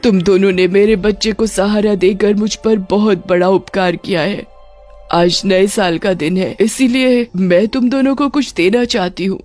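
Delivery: lightly voiced witch giving heartfelt thanks; a hint of a solemn ghost mother; grateful witch mother. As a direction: thank the child's rescuers earnestly.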